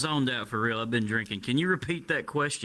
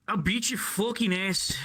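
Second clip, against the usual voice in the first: higher-pitched attempt at an Irish accent; Conor McGregor; 5 semitones higher than usual. Shown as a demonstration. Dared by friends to try it, mock Irish accent. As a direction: have a go at a fighter's Irish accent. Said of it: "Conor McGregor or something".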